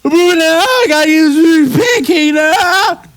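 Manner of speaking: loud, high mock Cajun shout; Cajun yell. Dad yelling in Cajun at his son over a pancake, loud, high Cajun shout. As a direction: bellow it like a Louisiana dad in Cajun. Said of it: "he was yelling at me in Cajun".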